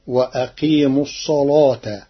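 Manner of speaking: الصلاة with a thick, emphatic lam; heavy lam. Shown as a demonstration. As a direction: darken the ل in الصلاة after the ص. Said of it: "قرأ ورش كلمة الصلاة بتغليظ اللام". (الصلاة بتغليظ اللام)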